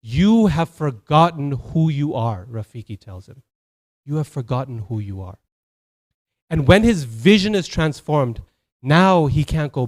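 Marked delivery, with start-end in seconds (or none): 0.0-2.4 slow, weighty declaration; solemn pronouncement. Acted. Rafiki's revelation, then repeated lower. 4.0-5.4 lower, subdued repetition; solemn echo. Acted. Same revelation repeated lower.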